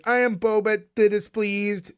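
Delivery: slow, stiff robotic alien voice; fake alien voice. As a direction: intone it like a stiff fifties alien. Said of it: "I love you doing the voice".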